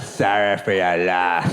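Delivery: slow, drawn-out fake sympathy; insincere condolence. Comedian mimicking the rep at a funeral, slow insincere condolence. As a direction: stretch out a mock condolence, "sorry" ending in "ay". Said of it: "It's the least sincere apology of all".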